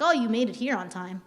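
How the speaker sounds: mildly sarcastic remark. Shown as a demonstration. Trainer showing staff how the same sentence turns sarcastic. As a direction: say it with understated sarcasm. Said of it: "come off very sarcastically".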